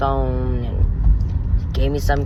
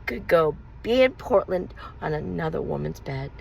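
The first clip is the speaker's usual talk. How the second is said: hurt accusation; 3 semitones higher than usual. Retold or imitated. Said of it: "And I said".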